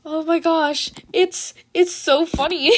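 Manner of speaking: giggling through the words; can't stop laughing. Real, not acted. The reader laughing at her story, giggling.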